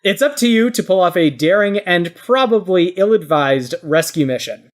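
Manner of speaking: game master's measured scenario read; scene setting. Acted. Host sets players a rescue mission, scene-setting narration.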